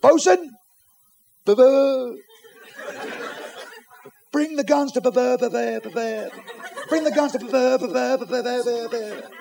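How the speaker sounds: high, babbling stutter; stammered order. Acted. Captain ordering the bosun to ready guns, stammering. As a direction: start with a shout, then stick on the b.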